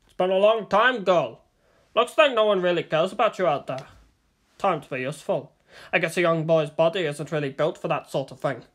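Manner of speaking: lightly voiced sneering captor; a hint of a menacing thug; leering kidnapper. Kidnapper taunting his captive, leering.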